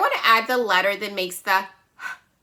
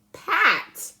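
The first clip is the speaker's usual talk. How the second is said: pat said much higher; bright blend; 9 semitones higher than usual. Shown as a demonstration. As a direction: pop the word pat up high. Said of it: "add that p sound".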